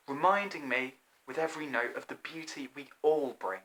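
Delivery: a gentle fly chiding his friends; wise old fly. Acted. Fly speaking calmly to the feasting animals. Fly's long speech to guests.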